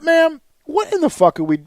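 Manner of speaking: blowing up at the rep; shouting at the customer service rep; lost his temper. Retold or imitated. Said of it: "I lost my shit".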